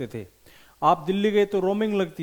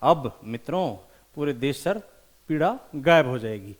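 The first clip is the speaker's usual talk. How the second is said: a lightly voiced lower imitation of Modi addressing the nation; mock Modi speech; 4 semitones lower than usual. Teacher imitating Modi's address to the nation, mock solemn. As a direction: play the prime minister announcing the pain is gone. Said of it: "इसके बाद कहते हैं".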